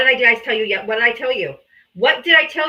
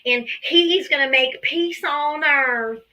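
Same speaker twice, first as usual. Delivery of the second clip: slow, sing-song mock of a Trump voter; 2 semitones higher, slower than usual. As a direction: drag out the voters' slogans mockingly. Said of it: "You guys told me".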